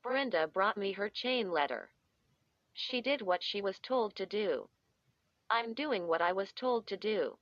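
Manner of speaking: lightly voiced robotic monotone. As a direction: speak like a dazed robot, evenly. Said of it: "Joan spoke like a robot".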